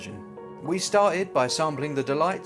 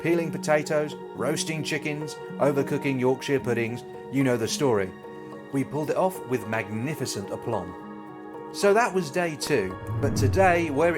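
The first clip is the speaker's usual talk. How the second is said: lively travel presenter narration; upbeat travel show host. Acted. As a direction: tell it like a cheerful TV host. Presenter narration over footage.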